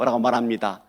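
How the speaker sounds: ordinary talk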